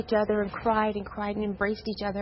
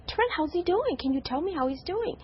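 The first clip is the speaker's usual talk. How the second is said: retold anxious plea; 6 semitones higher than usual. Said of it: "I kept saying".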